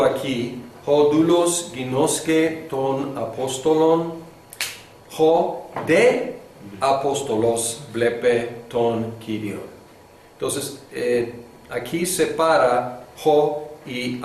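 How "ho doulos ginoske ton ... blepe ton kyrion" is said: carefully sounded-out Koine Greek; paced like a model reading for students; slow Greek reading. Shown as a demonstration. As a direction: read the Greek example slowly, word by word. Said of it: "Por ejemplo".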